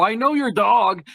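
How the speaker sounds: mild imitated nervous outburst; anxious blurting. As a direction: blurt it out nervously, half-yelled. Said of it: "I just start yelling".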